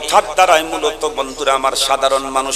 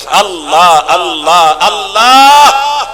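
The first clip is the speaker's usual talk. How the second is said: drawn out exclamation; 2 semitones higher, 7 dB louder, much slower than usual. Acted. Preacher's rapturous exclamation.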